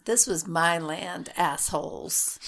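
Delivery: slow, emphatic mock indignation; mock indignant ghost. Host playing the ghost who saw his land taken, mock indignant. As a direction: stake the claim slowly, playing the wronged ghost. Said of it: "he's like".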